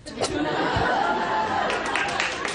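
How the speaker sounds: short awkward chuckle; embarrassed laugh. Real, not acted. Reaction to judge's jab.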